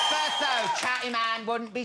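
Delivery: host announcement. Real, not acted.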